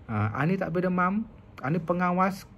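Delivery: mock scolding parent. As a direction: nag the sick child like a strict mother. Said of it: "dia marah anak dia". (ibu memarahi anak yang demam, nada tinggi berleter)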